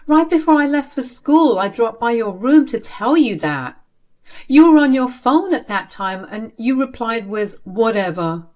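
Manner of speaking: high, loud self-defence; insistent protest. Acted. Child defending self to father, high insistent protest.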